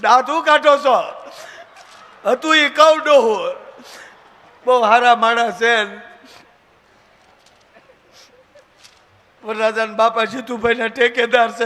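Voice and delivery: mock their grand claims; boastful matchmaker. Bride's family mocking the groom's boastful relatives, hammed up.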